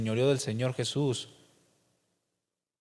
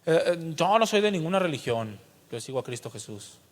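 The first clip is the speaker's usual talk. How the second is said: a light imitation of halting excuses; a nervous believer asked about his religion, hedging; hesitant stammer; 2 semitones higher than usual. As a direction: stumble over the answer, unsure. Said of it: "O titubean cuando les preguntan".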